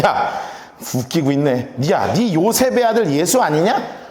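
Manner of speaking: scoffing, ending on a rising question; mild sarcasm. Acted. Offended crowd doubting Joseph's son, mildly sarcastic. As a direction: challenge him with a touch of scorn. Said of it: "빈정이 상해가지고 이르되".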